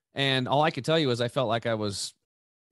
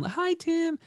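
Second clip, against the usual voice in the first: very high, sweet imitated hello; mock sweet therapist greeting him at the door; nice calm greeting. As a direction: chirp it like the nicest lady ever. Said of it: "she's this nice, calm".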